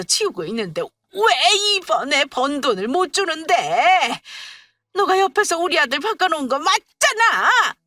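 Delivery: furious mother-in-law. Acted. Mother-in-law grabs the wife's hair, furious accusing. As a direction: tear into her as the one to blame.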